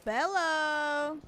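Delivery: high chirpy Minion call. Pretend. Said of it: "when I say bello, what do you say".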